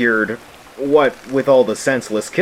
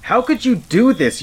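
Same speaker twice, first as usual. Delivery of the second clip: anguished cry; 10 semitones higher than usual. Acted. Accuses the killers.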